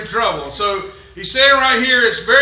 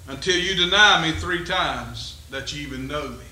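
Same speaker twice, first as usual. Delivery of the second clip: softer, lower, slow calming voice; calm Jesus; 4 semitones lower, 3 dB quieter than usual. Acted. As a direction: settle him down gently. Voicing Jesus calmly.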